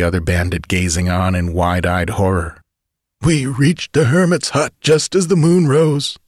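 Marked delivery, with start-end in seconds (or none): 3.2-6.2 raised, weak dying voice; a wounded man telling his tale; muttered. Acted. Dying bandit to chief, weak telling. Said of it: "the man muttered".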